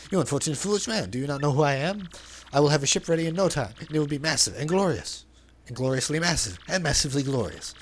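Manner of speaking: flamboyant merchant voice, lightly put on; theatrical braggart reading; hammed-up Flavio. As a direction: play the vain, dramatic sailor.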